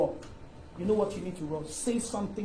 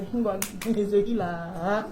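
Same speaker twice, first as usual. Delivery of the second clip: mocking; slower than usual. Shown as a demonstration. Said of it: "the greatest mockery is the one nobody can hear".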